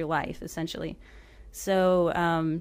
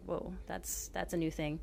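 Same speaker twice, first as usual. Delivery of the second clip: stunned hush; 8 dB quieter than usual. Retold or imitated. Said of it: "you're just like".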